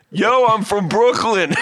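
laughing Brooklyn impression; cracking up imitating him; Brooklyn dude laughing. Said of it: "He goes".

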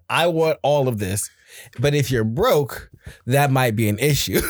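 slow, deadpan imitation; blank-faced child. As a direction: lay it out slowly and impassively, as the kid. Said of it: "it's just very blank face".

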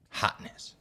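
ordinary delivery

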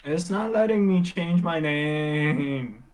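slow, drawn-out whine; whiny complaint. Real, not acted. Streamer can't change the name, whiny complaint. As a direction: stretch the last word in frustration. Complains the site won't save.

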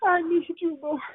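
cling to each word through the crying; tearful prayer. Real, not acted. Woman thanking God on the call, still tearful.

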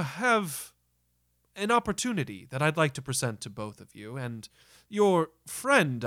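a hint of a courteous, hesitant host; lightly voiced theater director. Theater director offers visitors an opportunity, lightly voiced and courteous. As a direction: lightly play a polite troupe director, measured and halting.

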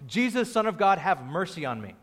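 restrained imitation of a blind man's cry; mock yell. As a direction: call out for mercy, only half yelling. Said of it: "started yelling from the top of his lungs".

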